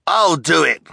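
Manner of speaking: high, loud volunteer's cry. A narrator's reading. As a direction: call out over the rivals. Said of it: "cried the hook-handed man".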